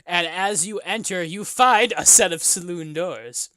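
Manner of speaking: drawn-out, dramatic scene setting; game master narration. Acted. Game master revealing the tavern doors, dramatic narration. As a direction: build up to the reveal.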